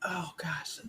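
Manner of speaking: strained whisper while stretching; breathy groan mid-stretch. Real, not acted. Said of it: "I'm stretching my back".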